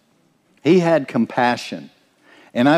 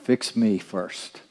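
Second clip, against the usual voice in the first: quiet echo; 3 semitones lower, 8 dB quieter, slower than usual. Shown as a demonstration. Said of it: "repeated for emphasis".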